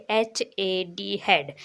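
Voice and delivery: एच ए डी said very slowly; slow spelling. Shown as a demonstration. Teacher spelling for beginners, very slow. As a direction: spell out each letter slowly. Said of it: "इसकी spelling देख लीजिए".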